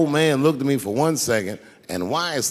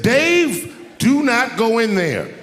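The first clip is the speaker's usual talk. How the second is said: much higher and louder, slowed plea; urgent warning; 7 semitones higher, 4 dB louder, slower than usual. Retold or imitated. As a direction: beg him not to go in. Producers warning him away.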